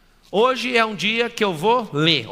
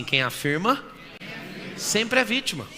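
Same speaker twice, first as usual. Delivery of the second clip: prompting the audience; 3 semitones higher than usual. Shown as a demonstration. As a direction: lead a call-and-repeat in two chunks. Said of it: "Vamos falar com a boquinha? Fala assim".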